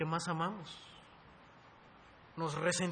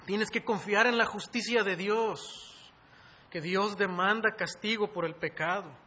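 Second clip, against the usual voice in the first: raised, insistent sermon voice; forceful preaching; 4 semitones higher, 5 dB louder than usual. Real, not acted. Preacher urging the congregation to confess sin, forceful preaching. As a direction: press the congregation hard, building louder and higher.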